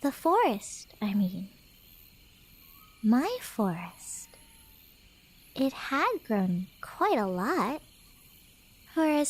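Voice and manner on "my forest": slow, low, possessive whisper; creeping possessive whisper; ominous whisper. Acted. Cat girl hinting at menace.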